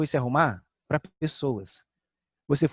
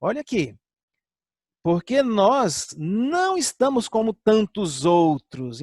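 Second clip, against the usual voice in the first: voicing Paul; 4 semitones higher, slower than usual. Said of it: "por isso Paulo diz assim".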